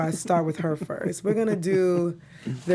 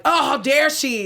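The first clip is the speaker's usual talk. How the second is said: higher, drawn-out mock gasp of offense; slow it down, scandalized on their behalf; mock outrage; 5 semitones higher, 4 dB louder, slower than usual. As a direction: act out pearl-clutching indignation. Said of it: "They're like".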